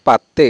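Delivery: পাত্তে with a doubled t, never d; t sound in পাত্তে. Shown as a demonstration. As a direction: hold the t in the middle of পাত্তে. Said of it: "এখানে ত উচ্চারণ হবে".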